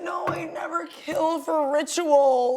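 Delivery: slow, outraged cry; hammy, slow indignation; indignant protest. Acted. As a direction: draw out the denial in outrage. Protesting a threatened false accusation.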